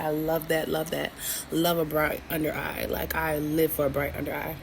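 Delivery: talking between sips of coffee; quiet words around a coffee sip; sipping coffee. Real, not acted. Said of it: "Sorry if you hear me sipping my coffee".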